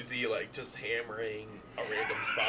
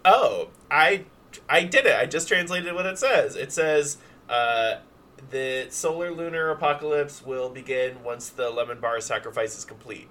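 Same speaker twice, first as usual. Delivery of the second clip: excited character; 5 dB louder than usual. Acted. Susie voiced, excited discovery.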